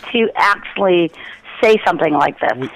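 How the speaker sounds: usual speaking voice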